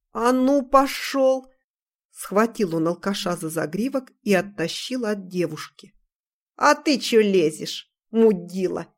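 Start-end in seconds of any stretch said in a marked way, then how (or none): 0.1-1.5 put-on barked command at a drunk; sharp shout. Ivan yanks the drunk away. 6.5-8.9 put-on slow, slurred drunken yell; belligerent drunk. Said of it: "пьяно заорал тот".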